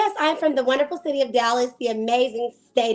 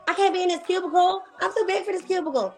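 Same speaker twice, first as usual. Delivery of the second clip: higher-pitched retold protest; mock protest; 7 semitones higher than usual. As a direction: protest being boxed in, playfully. Retells protesting against her office job.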